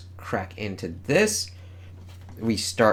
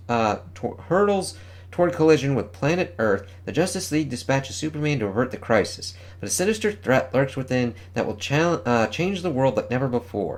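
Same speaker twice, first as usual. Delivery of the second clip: announcer read. Acted. Reads comic solicitation text.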